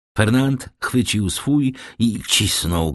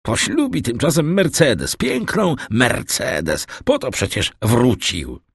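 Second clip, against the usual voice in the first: tipsy goading; 6 semitones higher than usual. A narrator's reading. Kaderus goads Fernand about the wedding.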